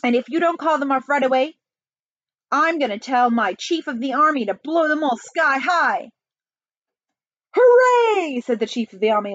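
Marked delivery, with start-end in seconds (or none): 0.0-6.1 raised-pitch blustering warning; indignant ultimatum; barked threat. Acted. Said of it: "barked the president". 7.6-8.4 high, loud whoop; wildly excited shout; gleeful cheer. Acted. Army chief cheers.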